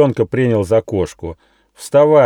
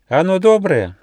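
much higher mouse voice, questioning; doubtful little mouse; 11 semitones higher, 5 dB louder than usual. Acted. Mouse questioning the gnome, high mouse voice. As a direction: ask it with squeaky doubt.

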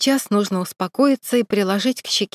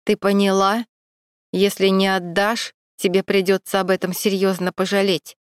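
sharp threat. Acted. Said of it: "резко проговорил незнакомец".

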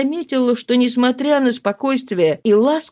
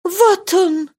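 high excited cry of relief; exclaiming; 11 semitones higher than usual. A narrator's reading. Marie at the window, spotting her father: joyful exclamation. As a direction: cry out as she spots him. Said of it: "воскликнула она".

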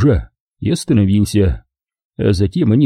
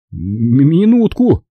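slow, stammering, growing worried; nervous stammer; 5 semitones higher, much slower than usual. Acted. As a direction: stumble over it, getting scared. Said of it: "пробормотал водитель".

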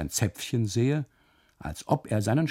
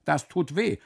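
pained whine; 8 semitones higher than usual. Acted. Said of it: "ruft er".

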